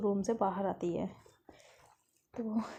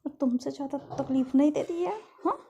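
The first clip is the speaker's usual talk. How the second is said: louder, higher chiding; firm loud scolding; 5 semitones higher, 5 dB louder than usual. Acted. Caretaker chiding the girl for fearing a needle, loud and firm. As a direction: chide her firmly. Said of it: "कहती".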